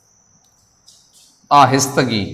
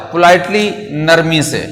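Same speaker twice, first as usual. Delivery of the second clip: ordinary talk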